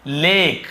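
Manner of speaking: लेक with a long, clear ए; AY in lake. Shown as a demonstration. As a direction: say लेक on a held ay. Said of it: "हम क्या पढ़ रहे हैं". (लेक, लंबी ए से)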